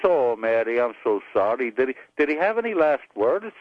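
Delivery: lightly voiced Irish priest; Irish accent. Parish priest asking widow about last words, Irish accent. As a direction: ask gently in an Irish accent. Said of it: "you wanna hear an Irish joke".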